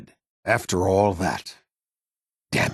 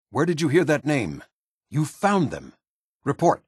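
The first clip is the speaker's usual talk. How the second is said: higher-pitched, urgent questioning; startled demand; 7 semitones higher than usual. Acted. Commander learns the missing team was found, startled. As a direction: demand the news, taken aback.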